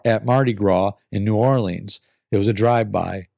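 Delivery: brighter storytelling read; story narration. Acted. Reads a listener's story.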